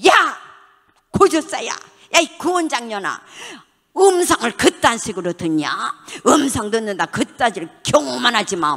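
mock angry tirade at the clinic director; angry scolding. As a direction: bark it like a furious church member cursing her. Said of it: "막 욕을 퍼붓고 가".

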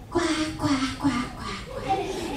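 softly imitated duck quacks; duck quacking. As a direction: quack lightly like a row of ducks. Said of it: "The ducks said".

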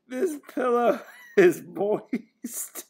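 slow, drawn-out deadpan critic; lightly voiced pillow-reviewing ring bearer; pillow reviewer voice. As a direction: review the pillow like a picky hotel guest. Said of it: "he's gonna be like".

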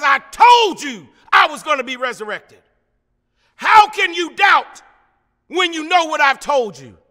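mildly indignant rebuke, preached out; upset Jesus. Acted. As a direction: reproach the doubters, acting a hurt Jesus. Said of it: "Jesus is upset".

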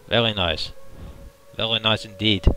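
attempted French accent; lightly put-on French accent. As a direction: have a modest go at a French accent. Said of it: "my best attempt at a French accent".

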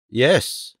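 a short, emphatic YES; understated but decided YES. A narrator's reading.

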